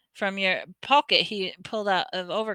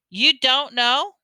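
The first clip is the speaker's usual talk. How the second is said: slow, louder, higher disbelief; astonished; 5 semitones higher, 6 dB louder, slower than usual. A narrator's reading. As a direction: repeat it more amazed. Hagrid repeating, louder.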